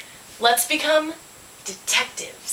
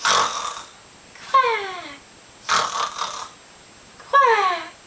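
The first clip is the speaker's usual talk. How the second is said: high falling duck quack; long high quack, falling away; 8 semitones higher than usual. A narrator's reading. Duck asleep, storyteller makes quacks.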